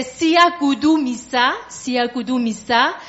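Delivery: "Siagudu Misa" with every u as "oo". Shown as a demonstration. Teaching a Zulu line, "Siagudu Misa" with u pronounced "oo". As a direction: sound out each syllable of "Siagudu Misa", u like French "ou". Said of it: "le U devient un OU".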